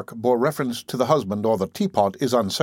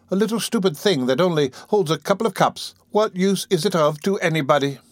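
put-on a touch higher, musing old matron; lightly voiced matron; 6 semitones higher than usual. A narrator's reading. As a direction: muse on gratitude as the matron. Matron grumbling at teapot.

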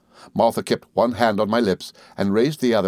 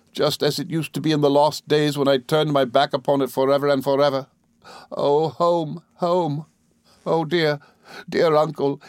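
high, sustained, imploring lament; Emily, anguished; 7 semitones higher than usual. A narrator's reading. Emily on her knees, anguished. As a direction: pour out remorse in a raised voice.

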